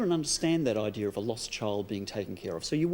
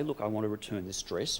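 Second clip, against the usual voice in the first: calm, measured request, a little softened; 3 dB quieter than usual. Shown as a demonstration. Coach showing how to ask for a refund, calm. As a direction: state it evenly and without aggression. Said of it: "you just very calmly say".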